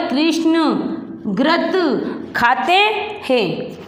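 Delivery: very slow, each word drawn out; slow read-along. Shown as a demonstration. Teacher to class reading along, very slow. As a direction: stretch every syllable for pupils to follow. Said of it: "तो पढ़ो मेरे साथ साथ".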